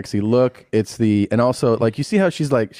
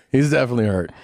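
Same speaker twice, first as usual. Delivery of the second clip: laughing; faster than usual. Real, not acted. Friend laughing at clip.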